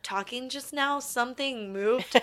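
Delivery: talking with a numb mouth; words slurred by dental numbness. Real, not acted. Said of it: "You know how my mouth is still numb?".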